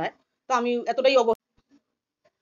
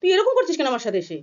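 higher, heated retold confrontation; glaring challenge; 7 semitones higher, 3 dB louder than usual. The neighbour confronts me to my face, in a heated, higher voice. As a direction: confront her with a glare in the voice. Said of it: "কিরকম আমার সাথে চোখ রাখলো".

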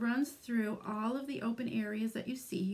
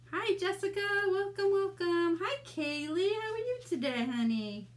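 excited greeting; 8 semitones higher, 4 dB louder than usual. Real, not acted. Greets live viewers by name.

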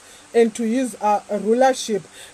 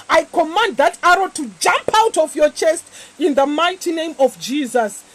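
fervent preaching; 2 semitones higher than usual. Acted. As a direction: command it with authority. Commands demons to break.

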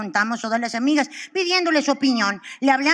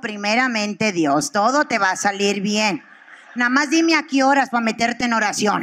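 pious friend; 4 semitones lower than usual. Retold or imitated. Religious friend giving her blessing, pious and lower. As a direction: sound like a devout churchgoer. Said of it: "mi amiga la religiosa".

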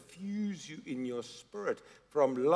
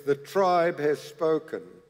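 slow, grave game-show verdict; TV host. Retold or imitated. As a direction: announce it like the Survivor host passing sentence. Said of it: "is the host says".

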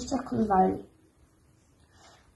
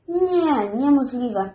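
feigned disbelief; much slower than usual. Pretend. Gusia mocks her hungry friend, feigned disbelief. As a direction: fake amazement, swooping up then settling. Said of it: "Gusia udała niedowierzanie".

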